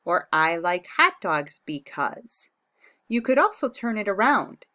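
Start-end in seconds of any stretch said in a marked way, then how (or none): 0.3-2.5 slow dictation. Shown as a demonstration. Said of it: "You can start out by saying".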